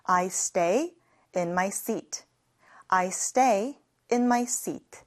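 slow, even teacher read; slow model sentence. Shown as a demonstration. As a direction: say it slowly for learners to copy. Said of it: "같이 해볼게요". (천천히 따라 하기 시범)

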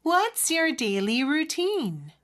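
slow repeat with "routine" turned upward; rising question ending. Shown as a demonstration. Teacher echoing the model for learners, "routine" rising. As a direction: say it slowly, lifting the end of "routine". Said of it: "끝을 올려줘야 되겠네요".

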